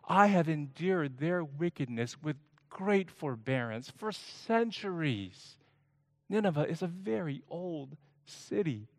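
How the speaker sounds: God rebuking. Acted. God reasons with Jonah about the plant, incredulous. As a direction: challenge him, half amazed.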